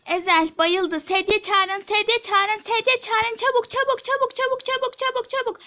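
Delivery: rapid-fire urgent calling; urgent alarm. Acted. Calling for a stretcher for fainted Ezel, urgent alarm. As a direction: call for help, words tumbling out in repeats.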